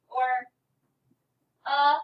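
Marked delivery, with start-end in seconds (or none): 1.7-2.0 "uh" as a short schwa, said louder. Shown as a demonstration. Teacher contrasting word forms for pupils, loud schwa "uh". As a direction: punch out "uh" as the unstressed form of the word a. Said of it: "we often hear the schwa sounds".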